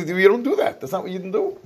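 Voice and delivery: retold rebuke. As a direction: act out her objecting to him. Voicing her rebuke to him.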